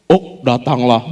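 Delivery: slow, drawn-out easy invitation; casual God. Acted. God calling Peter across the fire, slow and easy. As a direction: stretch it out calmly. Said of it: "Terus Tuhan di ujung sana bilang".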